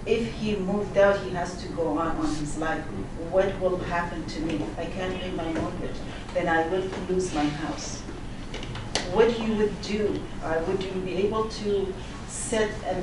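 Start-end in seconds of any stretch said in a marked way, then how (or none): none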